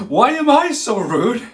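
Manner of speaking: loud, high, drawn-out outrage; indignant comeback. Retold or imitated. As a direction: throw it back, hammed-up and offended. Acted quarrel, indignant comeback.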